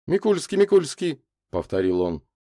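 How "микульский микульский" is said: high, searching repetition of a name; recalling. A narrator's reading. Лазарев searches memory for a surname, recalling. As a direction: try the name twice to place it. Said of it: "что-то вспоминая".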